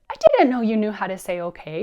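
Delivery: loud, playful disbelief; mock amazement. Mother marvelling that son says okay, loud mock amazement. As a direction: exaggerate your surprise for a child.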